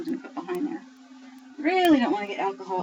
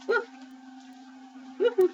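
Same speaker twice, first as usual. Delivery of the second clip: excited whoop. Real, not acted. Reacting to alcohol spritz.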